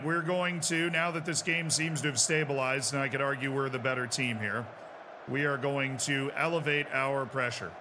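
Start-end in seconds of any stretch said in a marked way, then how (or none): 5.3-7.7 slow stress on elevate. Real, not acted. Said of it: "repeated faster".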